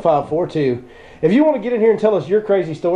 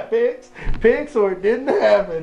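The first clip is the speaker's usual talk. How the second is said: laughing; 3 semitones higher, slower than usual. Real, not acted. Laughing at the picture joke.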